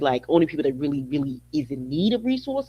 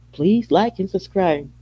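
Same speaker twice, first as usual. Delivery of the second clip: slow sign-off; 3 semitones higher, 5 dB louder, slower than usual. Real, not acted.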